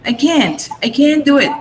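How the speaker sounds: "can't" said with a flat American "a" as in "cat"; American accent. Retold or imitated. The teacher imitates Americans for her pupils, "can't" with a flat American "a". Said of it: "they pronounce it can't".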